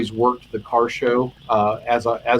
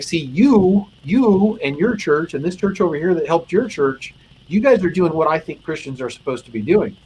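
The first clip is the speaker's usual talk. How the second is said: moved retelling, pitched higher; emotional; 5 semitones higher than usual. Real, not acted. Officer's words to chaplain about his church, retold emotionally. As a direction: let real feeling lift the voice through the quote. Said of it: "I made it more emotional than I meant to".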